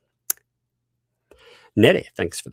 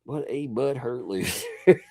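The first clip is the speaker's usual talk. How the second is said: slow, laughing mock insult with butthurt drawn out; laughing repeat; 5 dB quieter than usual. Shown as a demonstration. Streamer repeating his insult slowly while laughing. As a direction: savor the word butthurt through a laugh.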